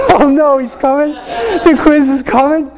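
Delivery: high-pitched mock panic; panicking kids. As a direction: fret like pupils about to be caught. Kids frantically flipping through notes.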